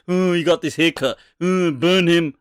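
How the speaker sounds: lightly acted childish tantrum; mock angry. God as a tantrum-throwing four-year-old, mock angry. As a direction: play at being an angry infantile God. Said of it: "He's just angry".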